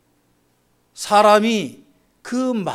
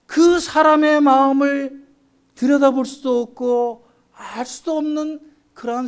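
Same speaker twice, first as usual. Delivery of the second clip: raised, sustained sermon voice; impassioned preaching; 6 semitones higher, 4 dB louder than usual. Real, not acted. Preacher lamenting unreadable hearts to the congregation, impassioned. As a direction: preach it out with high, held pitch.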